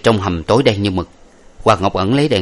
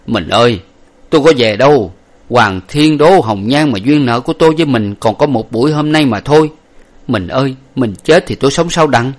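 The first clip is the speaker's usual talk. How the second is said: higher, louder weeping plea; husband crying over his dying wife, louder; grieving husband; 4 semitones higher, 5 dB louder than usual. Acted. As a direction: beg her not to leave you.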